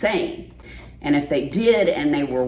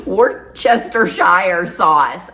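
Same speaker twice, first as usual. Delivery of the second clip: slow, careful; 2 semitones higher, 5 dB louder, slower than usual. Real, not acted. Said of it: "Why do I slow down when I say that".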